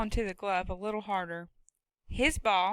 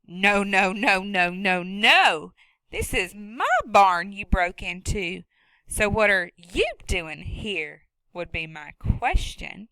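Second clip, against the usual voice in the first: a lightly voiced stern woman, louder; scolding woman; 6 dB louder, slower than usual. Woman scolds the boy who broke into her barn, sharply.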